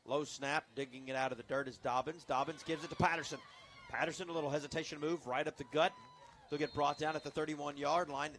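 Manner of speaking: steady call lifting with the runner; live play-by-play. Real, not acted. Announcer follows the runner up the gut, live play-by-play. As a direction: track the ball from snap to tackle.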